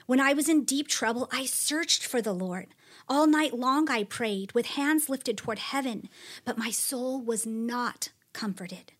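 a psalm read as a lament, with a few lines dropped to a whisper; dramatic scripture reading. Acted. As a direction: read it like a man crying out to God. Reads psalm aloud expressively.

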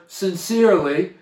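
"sincerely" set apart and stressed; emphasis on "sincerely". Real, not acted. Preacher underlines the condition for listeners, stressing "sincerely". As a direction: lean on the word "sincerely". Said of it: "I want to emphasize that word".

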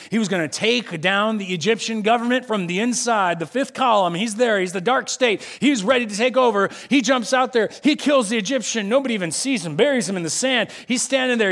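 normal talking voice

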